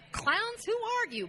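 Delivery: high, loud scornful put-down; mock English scoff. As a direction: sneer at them like a bored Brit. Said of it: "we'd be like".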